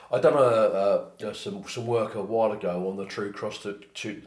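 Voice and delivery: talking without teeth in; loose dentures. Real, not acted. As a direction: speak with loose dentures, gummy. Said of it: "put my teeth back in, please".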